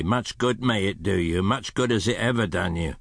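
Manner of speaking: understated stern retort. Acted. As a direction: dismiss him with mild severity. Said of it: "returned the uncle sternly".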